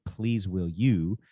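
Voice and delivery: slow, gentle ask; kindly asking. Shown as a demonstration. Father modelling a kind request to his kids. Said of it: "kindly asking".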